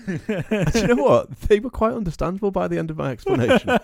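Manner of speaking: real laugh breaking every phrase; laughing while talking. Real, not acted. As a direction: giggle through the punchline. Laughing through his own story.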